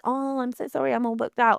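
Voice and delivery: lightly mocked fake-sorry tone; mock humble apology. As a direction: parody a falsely modest vendor. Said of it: "be almost like".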